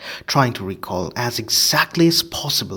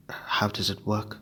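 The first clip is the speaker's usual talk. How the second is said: nervous; 5 dB quieter than usual. Acted. Harry nervously asking Lupin, in a whisper. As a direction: ask it nervously, under the breath. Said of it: "said Harry nervously".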